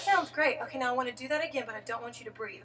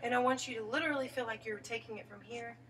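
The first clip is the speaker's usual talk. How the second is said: whisper; 5 dB quieter than usual. Real, not acted. Whispered coaching to student.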